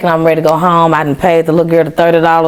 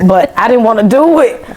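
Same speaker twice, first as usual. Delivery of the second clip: laughing through the words, a bit higher; 6 semitones higher than usual. Real, not acted. Repeating her stubborn refusal to the host, laughing. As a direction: giggle as you repeat it.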